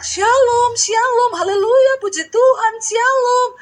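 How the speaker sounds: shrill bird voice calling out a blessing; squawking parrot. Retold or imitated. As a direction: screech it like a trained parrot. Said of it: "Burung beoknya teriak".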